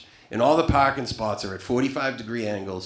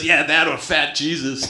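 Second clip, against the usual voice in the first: louder, higher, laughing through; laughing quote; 5 semitones higher, 7 dB louder than usual. Retold or imitated. Comic quoting Chris while laughing. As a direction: barely get it out laughing. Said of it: "he goes".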